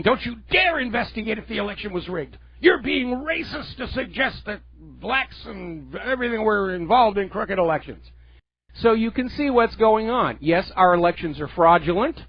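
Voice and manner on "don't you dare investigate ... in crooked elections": mock indignant protester. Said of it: "the N double A C P out there saying".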